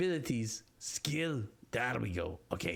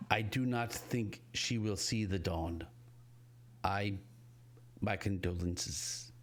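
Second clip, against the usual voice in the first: slow, measured delivery, dropping lower at the end; somber condolences; 5 semitones lower, 3 dB quieter, slower than usual. Acted. Bramble tells a mother her daughter is dying, slow and somber. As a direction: break the sad news slowly and gravely.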